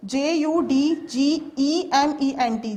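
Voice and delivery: slow, letter by letter spelling; spelling aloud for students. Shown as a demonstration. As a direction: spell C O L O U R slowly, each letter apart. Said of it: "the word judgment".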